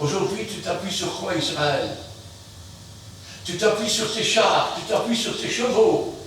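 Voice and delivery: normal talking voice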